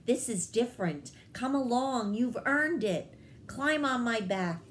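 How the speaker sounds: a proud bird granting a reward; hummingbird, softened. Acted. Hummingbird speaks kindly now.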